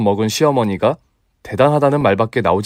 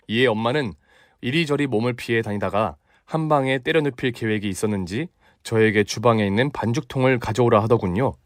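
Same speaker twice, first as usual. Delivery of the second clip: plain reading voice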